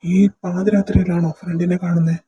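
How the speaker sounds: loud, accusing question; scolding older brother; stern disbelief. Acted. Brother challenges sister's midnight excuse.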